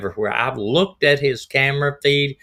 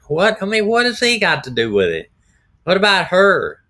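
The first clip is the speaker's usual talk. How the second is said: incredulous; 8 semitones higher than usual. Real, not acted. Outraged at his excuse.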